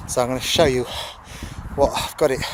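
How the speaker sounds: panting between words after a sprint; breathless, gasping for air; out of breath. Real, not acted. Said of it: "sorry, I'm out of breath".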